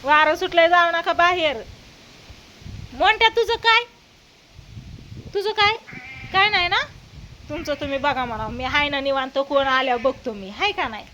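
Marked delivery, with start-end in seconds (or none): 2.9-6.8 pet talk. Real, not acted. Asking her dog what it wants.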